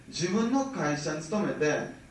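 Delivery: 自分の会社に勤めて spelled out slowly, word by word; slow it right down so they catch every word; emphatic slow repeat for the audience; slow and deliberate. Shown as a demonstration. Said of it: "よく聞いてね".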